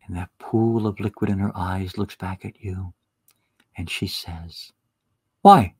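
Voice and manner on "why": puzzled why. Acted. Wife answers the declaration.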